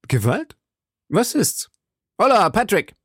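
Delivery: high, indignant call for help; alarmed calling out. A narrator's reading. Duke threatened by Felton calls for Patrick, high and alarmed. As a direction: summon a servant in rising alarm.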